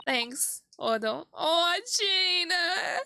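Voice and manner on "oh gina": overwhelmed, near tears with delight; real tearful squeal; real emotional outburst. Real, not acted. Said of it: "I'm teary-eyed right now".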